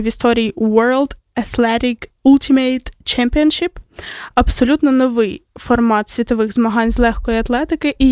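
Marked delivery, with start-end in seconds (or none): 0.6-3.7 playfully showy English pronunciation; English said with mock pride; showing off English. Shown as a demonstration. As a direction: flaunt your English on the event title. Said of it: "щас я буду хвастатися англійським".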